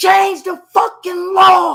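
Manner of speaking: put-on angry yell. Retelling yelling at the cop about the law: retelling yelling at a cop. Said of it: "I just started yelling".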